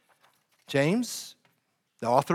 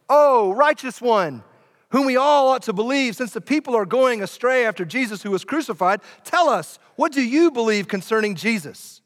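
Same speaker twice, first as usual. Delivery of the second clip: shouted; 5 semitones higher, 3 dB louder than usual. Acted. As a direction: call up to him from the crowd below. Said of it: "they shouted to him".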